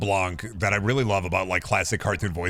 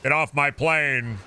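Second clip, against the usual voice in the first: movie line quote; 4 semitones higher, slower than usual. Acted. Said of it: "I sit down and say".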